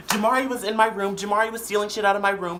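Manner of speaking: high-pitched imitated complaint; tattling. Sister calling her mom to tell on Jamari, tattling. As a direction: mimic a sister telling on someone, high.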